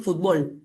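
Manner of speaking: fútbol said the Mexican way, "futBOL"; stress on last syllable. Shown as a demonstration. Teacher quoting Mexican usage, fútbol stressed on final BOL. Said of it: "porque para ellos es aguda".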